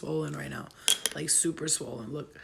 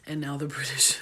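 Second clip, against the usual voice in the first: mock British accent; 4 semitones lower than usual. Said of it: "my British English accent".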